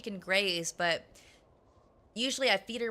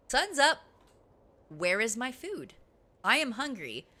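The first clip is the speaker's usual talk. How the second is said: lightly voiced cat, each demand set apart; 4 semitones higher, 3 dB louder than usual. Cat waking owner for breakfast, mildly demanding. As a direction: play a hungry cat making demands. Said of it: "And she's like".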